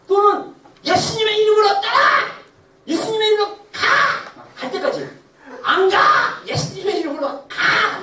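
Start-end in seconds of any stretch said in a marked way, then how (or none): 0.8-4.4 much louder, higher rebuke of the devil; commanding shout. Shown as a demonstration. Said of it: "막 이렇게 진짜 싸워야 돼요". 5.6-8.0 much louder, higher rebuke of the devil; commanding shout. Shown as a demonstration. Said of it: "막 이렇게 진짜 싸워야 돼요".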